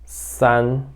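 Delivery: slow, separated digits; deliberate digit-by-digit delivery; demonstrated number reading. Shown as a demonstration. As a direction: space out each digit for a learner. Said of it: "eu falaria assim".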